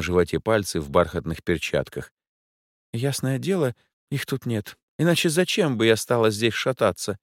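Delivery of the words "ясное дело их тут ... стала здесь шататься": higher, fussy lady's voice; a capricious rich lady rolling her eyes; Angela's voice. A narrator's reading. A bored rich client explains why she's out at night.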